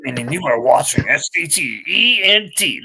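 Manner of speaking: friend echoing the Heyman intro, lightly voiced; mock ringside announcer; Paul Heyman impression. Friend repeats the new channel intro as Heyman. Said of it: "That was the intro right there".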